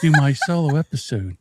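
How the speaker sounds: lightly voiced grand lady, imitating; a hint of a sultry duchess, hammed-up; imperious plummy grande dame. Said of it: "You have your Duchess voice back".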